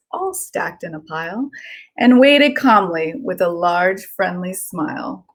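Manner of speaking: lilting storybook read-aloud; gentle sing-song story narration for kids; reading to children. Acted. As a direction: read it like a bedtime picture book. Reads picture book aloud.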